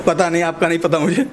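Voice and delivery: ordinary delivery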